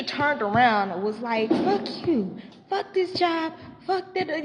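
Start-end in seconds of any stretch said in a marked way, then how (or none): 1.5-4.4 imitated high-pitched rant; mock a furious outburst, pitched way up; going off. Teacher turning on the kid following her, going off. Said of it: "she going off".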